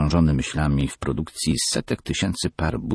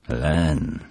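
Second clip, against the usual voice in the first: repeating thoughtfully. Acted. Father repeats the name, calm and pondering. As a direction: mull the name over calmly. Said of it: "powtórzył mister Moore".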